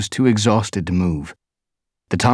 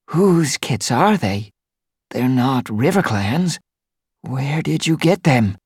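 higher, slow, shocked she-cat; shocked queen cat; 7 semitones higher, 3 dB louder, slower than usual. Acted. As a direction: demand answers as the startled queen. Narrator voices the she-cat.

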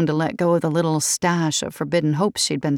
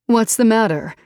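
tight, alarmed; 5 semitones higher, 4 dB louder than usual. Acted. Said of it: "Georgina's voice drew up tight".

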